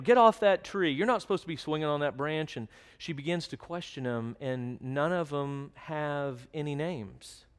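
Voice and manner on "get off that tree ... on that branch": scolding yell. Retold or imitated. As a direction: yell at them to get down. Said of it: "She goes".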